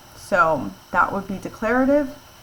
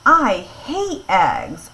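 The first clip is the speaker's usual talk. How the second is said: upset; 6 dB louder, much slower than usual. Shown as a demonstration. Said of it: "sound like someone who's upset?".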